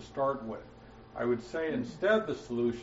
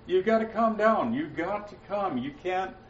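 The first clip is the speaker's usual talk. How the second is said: mild mock pleading, pitched up at first; pestering; 3 semitones higher than usual. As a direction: nag insistently, easing off toward the end. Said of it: "He didn't keep pestering Jesus".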